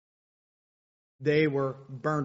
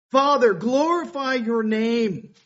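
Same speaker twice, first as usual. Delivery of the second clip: slow, loud and raised; a first, slower call to the Father; loud preached plea; 7 semitones higher, 8 dB louder, slower than usual. Acted. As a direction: proclaim it slowly to the crowd. Quoting Jesus' plea, preached.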